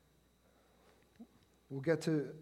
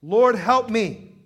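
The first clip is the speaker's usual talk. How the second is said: slow, high, loud cry for help; beseeching shout, heavy and slow; desperate plea; 5 semitones higher, 14 dB louder, much slower than usual. Acted. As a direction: cry it out with drawn-out words. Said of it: "knelt down before him".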